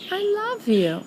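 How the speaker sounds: high, tiny Piglet voice; very small voice. Acted. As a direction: squeak it out like a shy little pig. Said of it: "in a very small voice".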